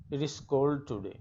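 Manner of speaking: very slow, careful read of "It is cold today"; slow example reading. Shown as a demonstration. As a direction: spell it out word by word for the class. Teacher reads example sentence.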